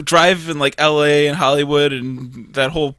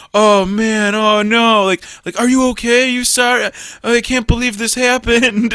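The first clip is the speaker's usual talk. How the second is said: mock concern; 5 semitones higher than usual. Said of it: "it just totally changes their tune".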